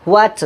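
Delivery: "হোয়াট" with an h sounded before the w; mistaken h pronunciation. Shown as a demonstration. Teacher rejects the common mistake, mistaken h pronunciation. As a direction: open হোয়াট on a breathed hw. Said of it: "এটা ভুল উচ্চারণ".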